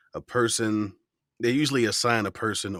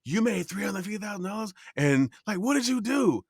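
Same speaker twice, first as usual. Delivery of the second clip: incredulous; 10 semitones higher than usual. Retold or imitated. Incredulous quoted question.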